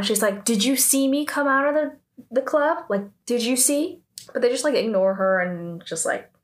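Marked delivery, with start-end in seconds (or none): 0.4-4.0 retold defiant challenge, pitched higher; defiant retort. Min Sora answering the gossiping students, defiant. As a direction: push back with raised pitch, mildly acted. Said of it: "she doesn't back down".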